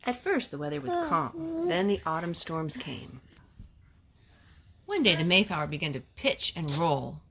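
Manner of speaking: gentle read-aloud storytelling voice; story narration. Acted. Mother reading a picture book to her children, gently.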